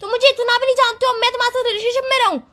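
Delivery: worked-up accusing tirade; angry. Acted. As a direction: scold a partner in a heated quarrel. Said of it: "तो इतना गुस्सा क्यों कर रही हो?".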